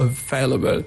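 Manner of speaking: available, with the stress on VAIL; stress on second syllable. Shown as a demonstration. Teacher illustrating stress in English, second-syllable stress. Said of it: "you have the stress".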